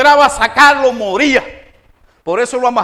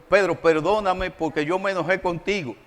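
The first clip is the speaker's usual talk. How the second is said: lower, softer apologetic voice; humble apology; 4 semitones lower, 6 dB quieter than usual. Acted. Preacher contrasting a true apology with false forgiveness, softly humble. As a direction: quietly own up and ask pardon.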